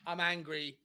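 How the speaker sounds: low, quiet real anger; angry. Real, not acted. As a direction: state your anger low and soft. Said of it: "I am fucking angry".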